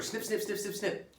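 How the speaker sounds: imitated snipping.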